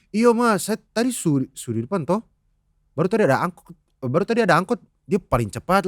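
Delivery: imitated Ambonese accent; lilting Ambonese storytelling voice; Ambonese uncle. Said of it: "om gue akan ngomong".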